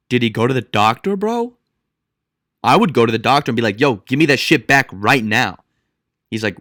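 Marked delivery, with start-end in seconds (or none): 3.8-5.6 mock angry demand. Acts out confronting the doctor.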